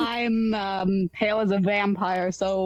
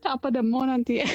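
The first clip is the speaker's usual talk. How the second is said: playful Irish leprechaun greeting; Irish leprechaun accent; 5 semitones higher, faster than usual. Acted. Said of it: "talk like a leprechaun".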